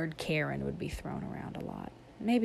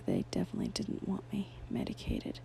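whispering; 3 semitones higher, 6 dB quieter than usual. Real, not acted. Aside in a whisper.

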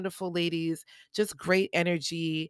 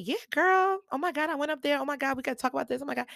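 gushing excitement; 7 semitones higher, faster than usual. Retold or imitated. Gushing to friend after stage.

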